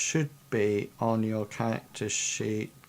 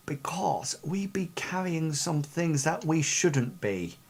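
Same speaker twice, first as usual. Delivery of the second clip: pirate whisper; 4 semitones higher than usual. Acted. Captain leans close, confides smuggling.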